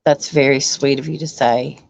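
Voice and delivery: breathy laugh into a whispered thanks. Real, not acted. Touched by a kind comment.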